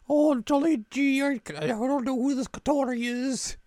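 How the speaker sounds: high, slow mock British accent; hammed-up British, like the dub; weird British accent. Imitating the dub's Kotori in a high, slow British accent. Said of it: "do a weird British accent".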